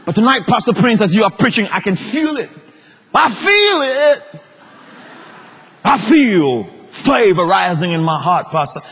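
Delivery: hammed-up rapture, stretching "feel"; mock an overcome believer, swooping up high on "feel it"; gushing church member. Church member telling Pastor Prince about feeling faith, hammed-up gushing.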